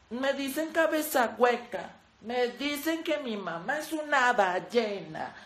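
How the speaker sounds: slow, soft, sorry-for-herself reading; mock sad roast lines. Parodying a Roast Yourself video, slow mock-sad voice. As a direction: drag each insult out like a sad confession.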